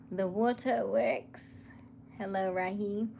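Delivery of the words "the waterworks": "The waterworks" repeated slower and at normal level, savoring it; drawn-out echo. Acted. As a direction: let it linger as a slow amused echo. Echoing own callout.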